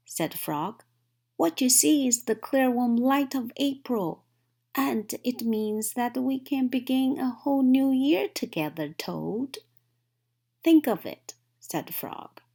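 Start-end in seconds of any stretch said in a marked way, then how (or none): 1.4-9.6 high and bright, softening to Toad's name; eager. A narrator's reading. Frog coaxing Toad with the promise of spring. 10.6-11.3 high, loud burst; excited urging. A narrator's reading. Frog urging Toad to imagine spring, loud and high.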